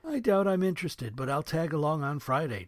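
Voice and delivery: a high, hesitant soldier; young soldier voice. Acted. Thomas voiced.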